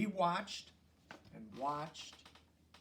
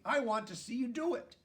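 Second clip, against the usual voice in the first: excited; 7 semitones higher, 4 dB louder than usual. A narrator's reading. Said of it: "the pollywog said excitedly".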